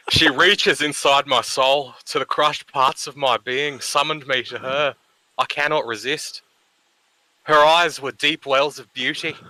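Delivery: overwrought poetry recital, each phrase milked; reading a cringey poem with mock gravitas; dramatic reading. Reading a friend's poem aloud to mock it, overwrought recital. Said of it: "who would like to do the dramatic reading?".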